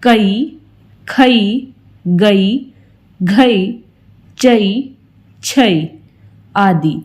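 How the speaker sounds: कई said as क plus ई glide; ai vowel drill. Shown as a demonstration. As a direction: slide from a to i in कई. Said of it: "उसे बोलते हैं". (ऐ की मात्रा वाली ध्वनि)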